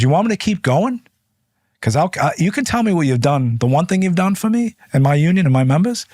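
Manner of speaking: fired-up comeback in a political argument; heated challenge. Retold or imitated. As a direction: press him hard and climb as you go. Heated quarrel with Schumer.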